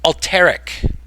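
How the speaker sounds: "Alterac" stressed on the second syllable; "Alterac" said al-TER-ac; mimicked mispronunciation. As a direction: hit the middle syllable of "Alterac", mimicking a streamer. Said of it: "emphasizing the second syllable".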